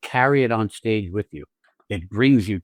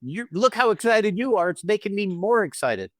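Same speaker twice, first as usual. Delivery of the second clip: higher, rising mock glee; feeding off her excitement; 6 semitones higher than usual. Shown as a demonstration. Husband answering his excited wife, higher and gleeful. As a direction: catch her excitement and toss it back. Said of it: "working off your excitement".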